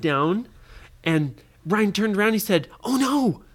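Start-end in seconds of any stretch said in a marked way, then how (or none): 2.8-3.4 high, loud oh no; a hammed-up gasp of dismay; mock alarm. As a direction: cry out as the door slams. Ryan trapped behind rock door.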